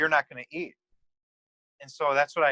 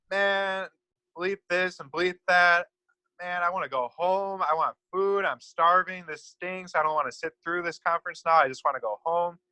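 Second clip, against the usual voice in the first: higher, mock angry rant, not truly yelled; retold angry shouting; 4 semitones higher than usual. Young man ranting at the stadium, mild mock yell. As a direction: rant it like a hungry man losing his temper. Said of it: "started shouting at the stadium".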